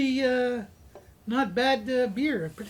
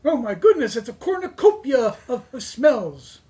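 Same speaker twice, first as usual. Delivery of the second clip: loud, mock-amazed gush; fake amazement; 2 semitones higher, 7 dB louder than usual. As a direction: overplay being wowed. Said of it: "I'm lying, of course".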